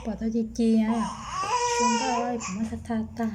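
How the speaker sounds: words through real sobs; crying. Real, not acted. Child sobbing while talking to her mother. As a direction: cry out the words.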